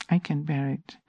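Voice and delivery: soft-spoken mantra; gentle mantra. Retold or imitated. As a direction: say it gently to yourself. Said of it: "Just gently".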